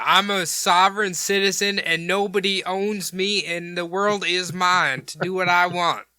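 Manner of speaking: a hammed-up Southern hippie declaring his rights; Southern accent. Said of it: "I didn't know why he turned Southern".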